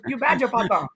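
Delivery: lightly mocked foreign accent; mock accented English; put-on accent. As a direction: imitate an accented stranger recognizing you. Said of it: "What is this accent you're doing?".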